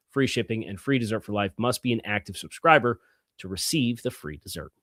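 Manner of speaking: upbeat sponsor read, words pushed out cleanly; podcast host reading a meal-kit sponsor spot. Acted.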